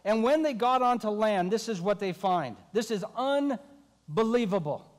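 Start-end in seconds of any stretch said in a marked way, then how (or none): 2.7-4.9 slow wonder. Real, not acted. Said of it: "preacher building wonder".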